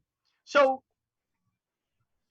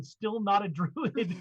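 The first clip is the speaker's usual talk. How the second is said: drawn-out deadpan repeat; slow deadpan echo; slower than usual. Retold or imitated. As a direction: say it slowly and flatly, echoing. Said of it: "That's what we should put on your thing".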